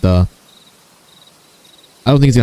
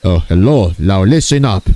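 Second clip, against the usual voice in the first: lightly put-on Indian accent; a hint of caricature Indian accent; mock Indian accent; 3 semitones lower than usual. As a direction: open a comic Indian impression at normal pitch. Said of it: "this is my Indian impression of Lois".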